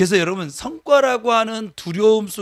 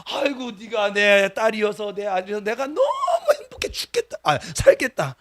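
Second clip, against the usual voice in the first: doting parent; 2 semitones higher than usual. Retold or imitated. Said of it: "속삭일 때".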